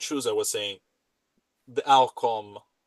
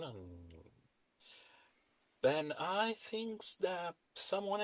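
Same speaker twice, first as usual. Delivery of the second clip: very soft, halting in-character voice; hushed, persuasive intimidator; quiet, menacing character; 12 dB quieter than usual. Acted. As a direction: make a veiled threat softly, taking your time.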